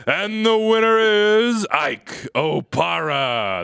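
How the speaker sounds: slow awards-show reveal; announcer voice. Pretend. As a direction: draw it out for the winner.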